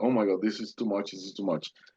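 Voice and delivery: speaking while crying. Retelling a moment in a basement: reenacting own past crying. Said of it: "So I started crying".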